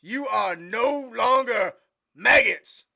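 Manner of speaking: slow, loud drawn-out proclamation; hammed-up movie sergeant bellow; Major Payne. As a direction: shout it ceremoniously, stretching the words. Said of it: "do you guys ever watch Major Payne?".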